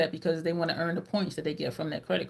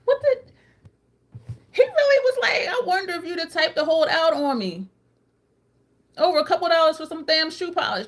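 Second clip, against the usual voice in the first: higher and louder, mocking disbelief; outraged retelling; 9 semitones higher, 5 dB louder than usual. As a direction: retell his words in indignant outrage. Outraged retelling of his line.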